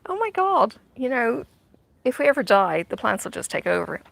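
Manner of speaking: starts high in mock panic, then settles; playing up a silly fear of plants; mock horror at a plant taking over the house; mock alarm. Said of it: "and it's like".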